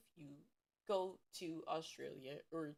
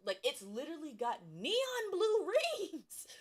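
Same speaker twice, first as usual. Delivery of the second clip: laughing; 8 semitones higher, 4 dB louder than usual. Real, not acted. Laughing disbelief.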